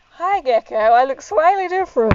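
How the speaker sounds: talking through a helmet; muffled in helmet. Real, not acted. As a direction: speak from inside a helmet. Greets viewer wearing helmet.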